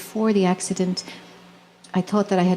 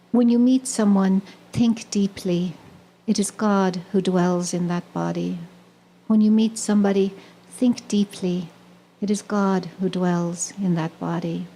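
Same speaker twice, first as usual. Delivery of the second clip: quote recitation. Acted.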